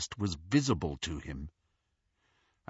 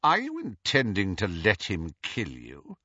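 sardonic. Acted. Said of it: "his tone was sardonic".

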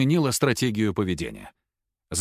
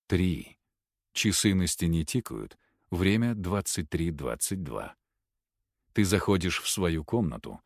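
hypnotic induction; 4 semitones lower, 4 dB quieter than usual. Acted. Hypnotist leading a patient into trance, low and soft. Hypnotist counts, gives suggestions.

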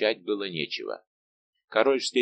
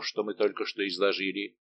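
plain reading voice

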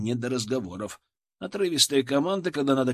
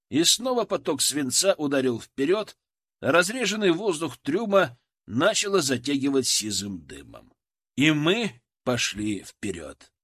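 usual speaking voice

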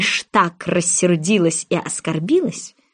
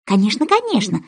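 conciliatory. Acted. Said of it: "примирительным тоном".

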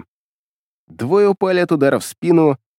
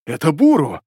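joyful shout. A narrator's reading. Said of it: "радостно крикнул Макото".

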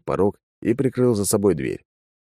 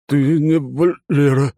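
put-on slow, higher, drunkenly sluggish; slow stunned drunk; 8 semitones higher, 5 dB louder, much slower than usual. A narrator's reading. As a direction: drag it out like a dazed drunk. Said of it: "заторможенно констатировал он".

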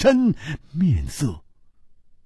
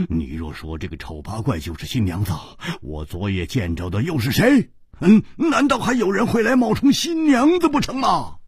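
跺脚争辩; faster than usual. Acted. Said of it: "胡铁花跺脚说". (急得争辩，越说越高)

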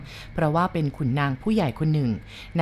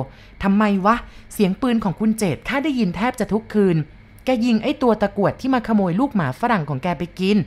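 a hint of an old woman, a bit higher; old cook brushing off the maid's gossip; lightly voiced old cook; 4 semitones higher than usual.

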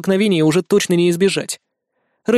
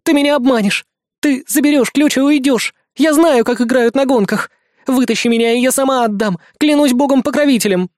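panicked accusation; 7 semitones higher, 4 dB louder than usual. A narrator's reading. Panicked girl refusing, swearing oath.

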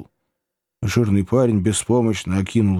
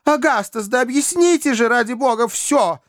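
put-on much higher, urgent girlish pleading; Emily pleading. A narrator's reading. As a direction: protest her innocence in a rush. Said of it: "воскликнула Эмили". (Эмили горячо оправдывается, намного выше)

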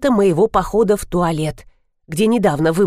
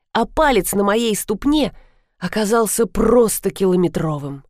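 ordinary delivery

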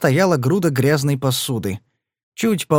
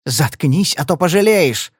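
mildly raised threatening cry; menacing cry; 3 semitones higher, 3 dB louder than usual. Acted. Marti menacingly cries out at Padler. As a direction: warn him sharply. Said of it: "угрожающе вскричала Марти".

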